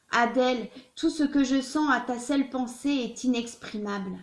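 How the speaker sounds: declaimed literary reading, steady and measured; love letter reading. Acted. Reader voicing Victor Hugo's letter to Adèle Fouché, declaimed love letter reading. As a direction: read it aloud as an ardent written declaration.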